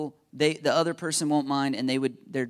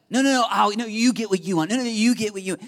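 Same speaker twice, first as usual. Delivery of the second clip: mock argument, louder, insisting on yielding; playful insisting; 4 semitones higher, 5 dB louder, faster than usual. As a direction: wave off the other person eagerly. Mock argument over who yields.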